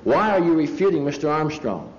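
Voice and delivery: high, loud accusing question; good and loud. Retold or imitated. Preacher loudly accusing the expert in front of his friends. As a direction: call it out so the whole crowd hears. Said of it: "I said that good and loud".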